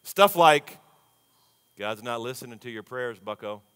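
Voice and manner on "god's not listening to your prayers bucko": soft, sly taunt, much quieter; taunting whisper. Retold or imitated. The enemy whispering lies into the mind, softly taunting. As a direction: murmur it like a tempter in the ear. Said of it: "likes to whisper nonsense into my mind".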